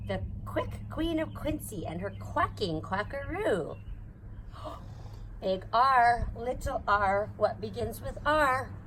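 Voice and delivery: sing-song picture-book read-aloud; reading to a child. Acted. Reading an alphabet book aloud to her baby, sing-song. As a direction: read it bouncy and playful for a little one. Reads Dr. Seuss ABC to child.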